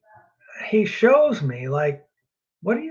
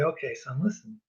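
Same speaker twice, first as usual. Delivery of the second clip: gentle fatherly God; 3 semitones lower, 4 dB quieter than usual. Pretend. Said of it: "and say".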